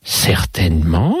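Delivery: lightly voiced lady, teasing and sing-song; mademoiselle enjouée. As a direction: play a chatty lady with swooping intonation. (demoiselle légèrement taquine, intonation chantante)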